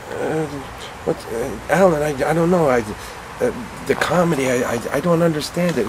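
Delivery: high, hesitant stammering; halting Pacino impression. Al Pacino puzzling over comedy, high halting stammer. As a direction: stumble over words like a confused star.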